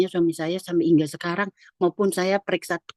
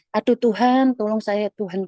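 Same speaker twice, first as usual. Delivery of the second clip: higher-pitched mock cry for help; retold pleading; 3 semitones higher than usual. Woman praying to God during stomach cramps, retold pleading. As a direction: re-enact a pained plea to God.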